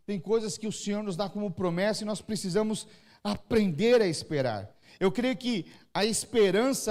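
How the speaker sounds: normal talking voice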